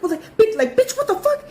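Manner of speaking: high squealing what the fuck after a fall; shocked outrage. Retold or imitated. Knocked over by her friend, shrieking in high disbelief. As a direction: yelp it in stunned disbelief.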